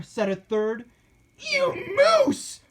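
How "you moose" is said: very high, loud squeaky curse; cursing. A narrator's reading. Captive cursing the fleeing mayor, high squeaky insult. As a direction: spit the insult out. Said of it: "cursed a fourth".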